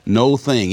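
"No thing" said as two separate, weighted words; split into two words. Retold or imitated. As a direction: stress "No", then a distinct "thing". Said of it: "but I spelled it".

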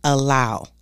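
"allow" set apart and stressed. Shown as a demonstration. Speaker drilling the word into listeners, stress on "allow". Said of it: "I wanna emphasize on the word allow".

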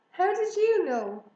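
astonished he already knows; amazed. A narrator's reading. Girl amazed hare knows.

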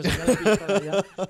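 loud, exasperated yell; shouting. Real, not acted. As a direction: shout at the screen. Yelling at a film duelist.

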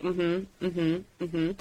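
soft imitated listening hums; lightly acted, unobtrusive agreement; patient listening. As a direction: nod along quietly as someone vents. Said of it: "was just nodding and just".

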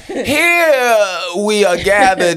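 solemn preacher-style eulogy. Pretend. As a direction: deliver it like a funeral officiant. Mock eulogy opening.

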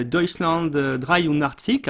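slow, careful German pronunciation of Deutschland, euh, dreiundachtzig, with a German ch and r; the original German title, spoken slowly in a light German accent. Shown as a demonstration. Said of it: "mon accent allemand".

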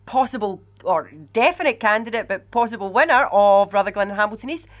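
mock TV presenter asking for a closing statement; TV fashion. Dan closing the show for the candidate, mock TV host. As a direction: play the debate host, with a laugh. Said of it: "can I do it in T V fashion?".

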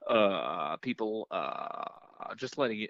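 drawn-out uhs over the intercom; lightly voiced, slow cockpit announcement; hesitant airline captain. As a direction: imitate a pilot stretching every filler. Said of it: "captains always fucking, uh, in between".

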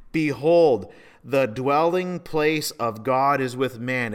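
loud, measured proclamation; loud voice from throne. Acted. A voice from the throne tells of God's dwelling, proclaiming. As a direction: announce it slowly and loudly. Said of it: "I heard a loud voice from the throne".

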